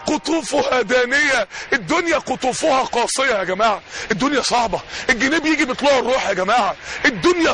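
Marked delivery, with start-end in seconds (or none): 0.1-1.5 very slow chanted verse; slow tajweed-style chant; Quran recitation. Acted.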